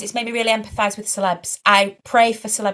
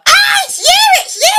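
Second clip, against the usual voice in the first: excited shouting; 10 dB louder than usual. Retold or imitated. Fan spotting her in the street, high excited shout. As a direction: imitate a fan's high, loud shriek. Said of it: "they just start shouting at you".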